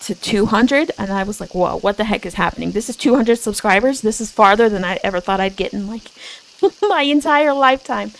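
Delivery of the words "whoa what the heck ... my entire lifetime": fast, breathless disbelief; amazed rush. Retold or imitated. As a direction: gush it out quickly, stunned. Retold own shock at 200 subs.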